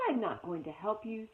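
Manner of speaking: usual speaking voice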